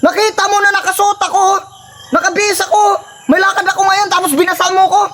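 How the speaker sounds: mock anger. Brother scolds the prankster who soaked him, in mock anger. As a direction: play the angry wet brother. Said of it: "Kunyari lang galit ako".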